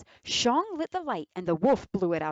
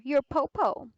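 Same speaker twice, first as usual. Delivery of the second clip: whisper; 7 semitones higher, 4 dB louder than usual. Acted. Wolf poses as grandmother.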